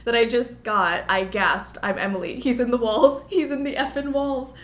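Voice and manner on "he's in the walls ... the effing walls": playful alarm. Pretend. Joking about a haunting.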